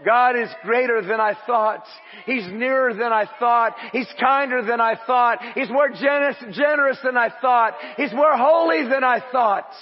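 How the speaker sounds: fervent mock worshipper's cry; worshipful exclamation. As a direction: proclaim it with rising wonder. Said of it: "you begin to worship Him".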